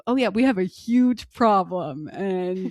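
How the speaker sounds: slow, put-on fake-cheerful clerk voice; mock storage clerk. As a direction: play a clerk cheerfully admitting it. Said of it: "what are they gonna tell you".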